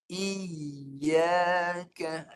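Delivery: Iyaka with a crisp, short i sliding up into ya; correct iyaka. Shown as a demonstration. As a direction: clip the i in Iyaka to one beat. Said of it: "Dengar saya baca".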